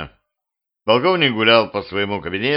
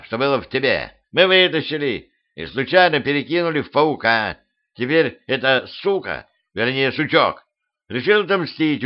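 put-on higher, urgent old crow; 4 semitones higher than usual. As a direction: report it like an anxious crow. Crow grandpa reports.

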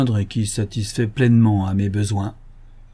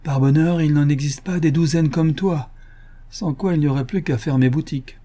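a touch of open admiration, a bit higher; admiring; 4 semitones higher than usual. Acted. Ganimard admires Lupin's coup, lightly admiring. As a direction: concede it with a connoisseur's respect. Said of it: "laissait franchement percer son admiration".

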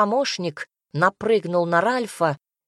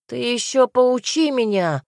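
higher, irritated retort; snapping back; 5 semitones higher, 4 dB louder than usual. A narrator's reading. Elf retorts to his director, snapping. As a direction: snap it back, mildly stung. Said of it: "огрызнулся эльф".

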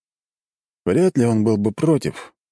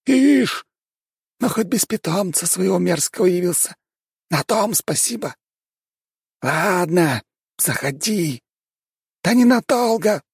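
grumpy house spirit. Acted.

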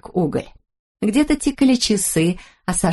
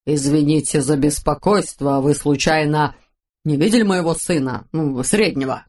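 lightly lower father voice; 5 semitones lower than usual. Acted. Papa voiced.

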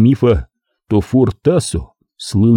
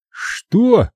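sharp high what; surprised Wayne; 12 semitones higher than usual. A narrator's reading. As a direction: caught off guard. (удивлённо)

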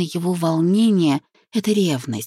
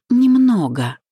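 higher-pitched, mildly pained retort; wincing reply; 6 semitones higher, 4 dB louder, slower than usual. A narrator's reading. Wife answers the tipsy groom's question, with a wincing lift. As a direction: answer through a wince, pitched up. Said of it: "поморщившись, отозвалась я".

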